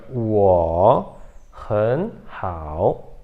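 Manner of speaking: "wo han hao" lento e grave, "wo" desce e sobe; leitura com tons trocados. Shown as a demonstration. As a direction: demonstre "wo han hao" alongando "wo", com "han" no segundo tom. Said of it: "Então fica". ("wo han hao" pausado, só o penúltimo no segundo tom)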